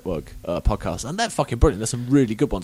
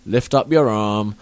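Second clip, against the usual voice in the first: mock drama teacher; 4 dB louder than usual. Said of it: "It was all just spent lying down".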